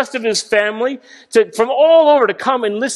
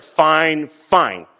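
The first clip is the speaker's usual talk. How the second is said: mock exasperated giving in, dropping lower; grudging fine; 4 semitones lower, much slower than usual. God caving in to a pestering child, fading lower. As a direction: sigh it out, worn down and fading. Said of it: "God will be like".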